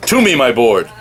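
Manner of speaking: lightly voiced old-school comic-book hero; a touch of declaimed superhero dialogue; Silver Surfer. Surfer calls his board in space, lightly declaimed. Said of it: "that old Stan Lee, Kirby-esque surfer dialogue".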